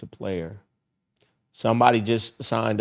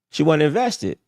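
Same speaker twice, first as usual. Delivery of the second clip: higher pitched, falling on "invested"; higher repeat; 6 semitones higher, 3 dB louder than usual. Shown as a demonstration. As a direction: repeat it up high for effect.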